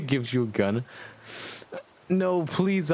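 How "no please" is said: mock plea, pitched higher; hammed-up desperate "please"; begging. Heroine begging Voldemort not to make her shoot, mock plea. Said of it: "I begged".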